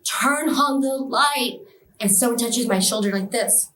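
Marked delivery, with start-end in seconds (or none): 0.0-1.6 slow, slightly raised mock yell; retold scream. Patient calling for the light, restrained mock scream. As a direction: stretch the cry out without really screaming. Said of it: "screaming at the top of my lungs".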